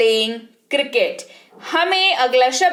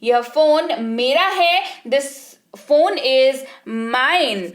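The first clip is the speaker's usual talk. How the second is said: slower, proud claim on the phone; with ownership; much slower than usual. Shown as a demonstration. Teacher showing how to claim a phone with pride. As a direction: say it like it's yours and no one else's. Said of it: "कितने हक से आप कहते हैं".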